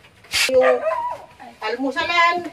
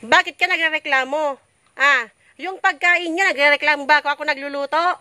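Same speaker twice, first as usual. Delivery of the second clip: kvetching. Acted. Mother rants about complaining kids.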